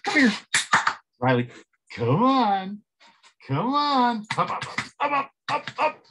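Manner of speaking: excited high-pitched pet talk; calling the dog. Real, not acted. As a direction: coax the dog up with bright high calls. Coaxing his dog to jump up.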